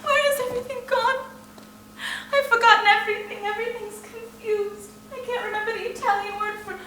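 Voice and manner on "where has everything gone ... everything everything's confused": fast, loud and panicked; frantic outburst. Acted. Irina panicking to her sisters, fast frantic outburst. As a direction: rush it out in rising panic.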